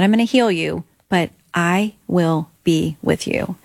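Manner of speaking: slow, measured promise; lightly voiced divine reassurance, unhurried; God's reassurance. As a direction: gently voice God's answer, word by word. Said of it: "I heard him say, not in an audible voice".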